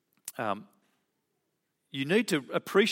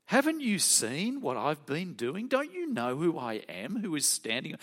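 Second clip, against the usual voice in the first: higher, indignant imagined Jesus; a hint of a fed-up teacher; exasperated Jesus; 4 semitones higher than usual. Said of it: "but imagine him saying it".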